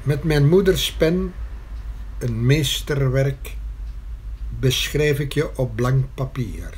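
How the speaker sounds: measured verse with spaced phrases; poem recitation. Acted. Poet reciting verse to the mother about her pen, measured recitation. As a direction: read it out as a poem, a pause after every line.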